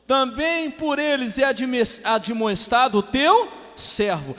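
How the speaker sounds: loud, high, slow proclamation; ringing, stretched-out Bible reading; preaching scripture reading. Real, not acted. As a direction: declaim the verse to the whole church.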